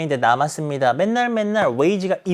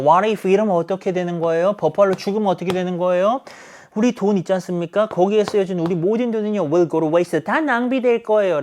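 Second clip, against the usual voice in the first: negative, worried wife; 4 semitones higher than usual. Retold or imitated. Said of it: "부정적인 견해를 말하는 거고".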